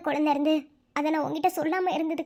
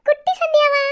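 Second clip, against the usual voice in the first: playful teasing; 11 semitones higher, 9 dB louder than usual. Acted. Teasing husband about baby.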